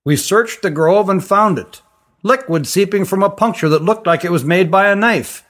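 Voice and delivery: a composed forest ranger recounting; calm stranger's voice. Acted. Issar's long account.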